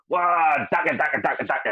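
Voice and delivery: high whooping "Wah!" then a chanted dagger; a mock orc charging in; a hint of a battle-crazed orc; orc war cry. Orc voiced in retold joke.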